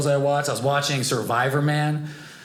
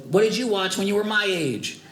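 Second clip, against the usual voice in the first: put-on young nephew; 4 semitones higher than usual. Voicing his young nephew.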